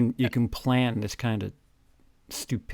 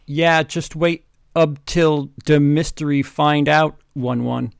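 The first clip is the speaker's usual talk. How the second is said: loud, higher taunting shout; mock yell; 3 semitones higher, 9 dB louder than usual. Co-host voicing Vampire yelling at the villain. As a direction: yell it like a bratty sidekick. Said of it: "Vampire yelled".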